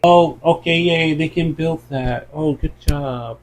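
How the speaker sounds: patronizing praise. Pretend. Aliens watching humans build a painting, slow patronizing praise. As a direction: praise like watching a clever animal, drawn out.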